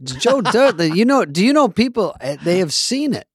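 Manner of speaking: odd halting pauses, Walken cadence; a friend's mild take on Walken; Christopher Walken impression. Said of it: "Dana's was good just now. I never heard you do Walken".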